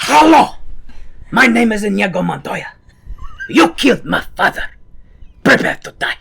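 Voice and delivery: loud, high swashbuckling declamation; Inigo Montoya voice. Retold or imitated. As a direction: proclaim it like a sworn avenger. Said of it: "In the Inigo Montoya voice".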